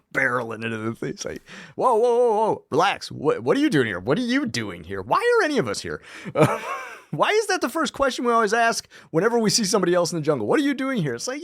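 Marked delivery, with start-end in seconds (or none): 1.8-6.0 high, frantic calming; mock-panicked, waving someone down; imitating a flustered Richard. Richard voiced barreling in. 10.5-11.1 high, exaggerated question; mock the cliché line up high; parodying a high stock question. Stock jungle question mocked.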